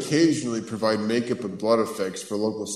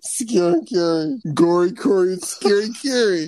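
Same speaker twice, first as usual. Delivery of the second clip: giddy; 9 semitones higher, 5 dB louder than usual. Real, not acted. Silly chanting nicknames, escalating.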